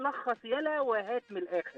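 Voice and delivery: lightly voiced sarcastic dad; understated sneering reply in a recital; mocking father. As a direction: brush the son off with mild sarcasm. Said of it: "فرد أبويا بصوت ساخر".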